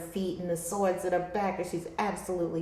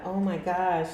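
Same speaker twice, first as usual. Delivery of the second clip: real laughter bursting out; laughing. Real, not acted. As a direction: laugh helplessly at the card. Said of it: "I do not mean to laugh".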